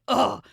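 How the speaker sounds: mimicked exasperated "ugh"; fed-up groan. Imitating the TikTok mom reacting to son, fed-up groan. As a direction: groan like a mother who has had enough. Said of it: "she's fed up with his shit".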